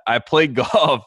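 drawn-out golf through a chuckle; amused, stretching out golf; laughing. Real, not acted. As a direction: laugh as you get the word out. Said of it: "I say this with all sincerity".

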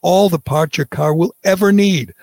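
brisk, upbeat ad read with every word clear; sponsor ad read. Acted. Host reading a sponsor spot to podcast listeners, upbeat ad read. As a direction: sell the parts store to the listeners.

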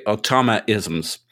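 Automatisms with a dropped middle t, aw-TAH-muh-iz-ums; lightly mimicking the English automatisms; imitating Clive. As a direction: say Automatisms English style, t swallowed. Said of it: "Or as Clive would say".

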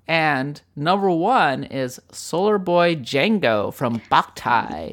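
slow, dramatic radio countdown host; Casey Kasem countdown voice. Pretend. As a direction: announce it like a top forty DJ. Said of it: "Casey Kasem countdown voice".

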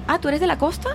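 retold surprise. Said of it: "la persona que me casteó me dijo".

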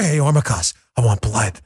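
deep, low mock-sinister voice; mock vampire menace. Host imitating a supposed infiltrator greeting a co-host, in mock vampire menace. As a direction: drop right down into a hammed-up menacing quote. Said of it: "what are you, freaking Nosferatu?".

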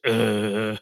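groaning "uh" as a mock British accent; hopeless British accent, just a groan; failed British accent grunt. Shown as a demonstration. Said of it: "let me try British".

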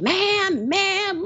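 high-pitched mock yell of the caller; imitated yelling. Co-host mimics the irate caller, mock yelling. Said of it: "she was yelling".

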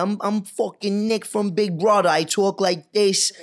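light Philly accent, a hint of Pesci; a touch of Philly swagger in the voice. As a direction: lightly put on a Philly guy voice. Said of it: "Do a Philly accent".

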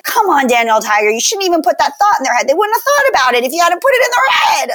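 rising scolding rant, fast. Retold or imitated. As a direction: scold the TV show. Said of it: "I'm like".

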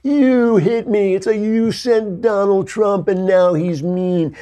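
high, slow, hammed-up whine of a little kid; whiny little kid. Little brother tattling after being hit, high and whiny. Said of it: "and the kid's like".

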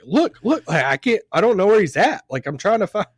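a lightly voiced player hunting for his driver; flustered Roddy B quote. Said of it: "he's saying his French accent".

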